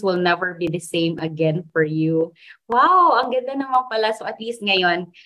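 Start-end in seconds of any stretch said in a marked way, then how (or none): 2.7-4.2 impressed wow. Real, not acted. Reacting to Google definition.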